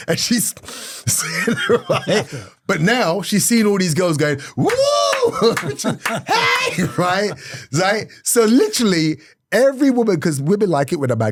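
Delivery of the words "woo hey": high-pitched whooping and hollering; imitated crowd cheering. Women in the audience cheering the comedian, high whoops.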